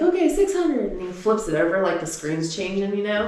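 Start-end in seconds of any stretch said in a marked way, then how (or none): 0.0-0.9 put-on little boy voice. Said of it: "He's like".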